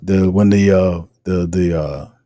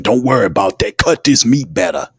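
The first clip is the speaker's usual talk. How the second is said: dismissive Sean Payton; 2 semitones higher than usual. Retold or imitated. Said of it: "the Butcher asked him".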